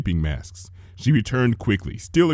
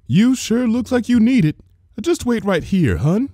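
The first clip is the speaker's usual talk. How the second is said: cheery greeting; 12 semitones higher than usual. A narrator's reading. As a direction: call out brightly as a baker. Missus Cake voiced.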